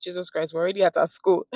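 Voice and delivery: ordinary talk, nothing marked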